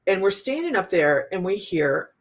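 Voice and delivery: usual speaking voice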